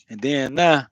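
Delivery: drawn-out Florida "then now"; Florida accent. Shown as a demonstration. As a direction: stretch it like a Floridian. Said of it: "you only gonna get that in Florida".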